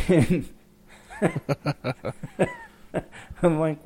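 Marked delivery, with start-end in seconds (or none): none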